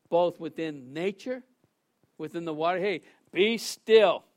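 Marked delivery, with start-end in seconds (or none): 2.8-4.3 commanding rebuke. Acted. Jesus rebuking the storm.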